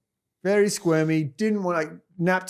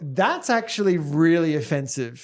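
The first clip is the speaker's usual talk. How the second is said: sarcastic; slower than usual. Retold or imitated. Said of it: "in a bit of a sarcastic way".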